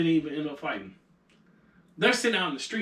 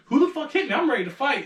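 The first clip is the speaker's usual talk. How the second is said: retold angry demand, higher-pitched; pissed off; 6 semitones higher than usual. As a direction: imitate an indignant friend spoiling for a fight. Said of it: "he gets pissed".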